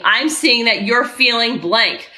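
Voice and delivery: slow, even labeling of a feeling; unhurried, detached observation; composed parent talking a child down; calm validating parent. Shown as a demonstration. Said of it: "you are staying like this".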